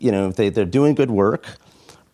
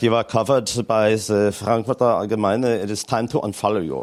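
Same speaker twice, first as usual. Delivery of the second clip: bad, overdone, exaggerated put-on German accent. Mimicking German followers who unfollow: bad exaggerated German accent. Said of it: "let me do my bad German accent now".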